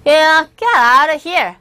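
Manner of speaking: strong, angry get out; loud angry dismissal; forceful. Retold or imitated. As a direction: snap it hard at the stranger. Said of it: "굉장히 강하게 얘기했을 것 같아요".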